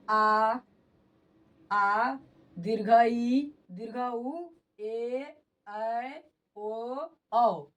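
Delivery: आ, ई, ऊ, ए, ऐ, ओ, औ each held long; long vowels. Shown as a demonstration. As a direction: draw out every vowel like आ and ओ, one at a time. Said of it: "पढ़ के भी देखिएगा तो थोड़ा सा ज़्यादा समय लगता है". (आ, ए, ओ जैसे दीर्घ स्वर खींचकर)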